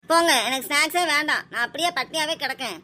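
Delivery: mildly tearful, hurt refusal; tearful sulk. Acted. Child telling mother she will go hungry, tearful. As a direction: protest as a wronged child, close to tears. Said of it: "அங்க அந்த பிள்ளை அழுதுகிட்டு போகுது".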